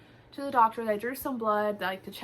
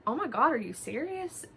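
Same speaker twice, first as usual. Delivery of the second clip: taken aback; 5 semitones higher than usual. Retold or imitated. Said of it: "kinda taken back".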